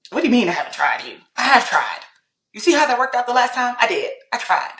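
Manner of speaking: mildly indignant protest; upset, retold. Guest retells defending herself to God, mildly upset. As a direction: argue your case, a touch exasperated. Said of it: "Like, I was upset".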